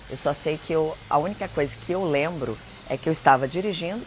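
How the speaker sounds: usual speaking voice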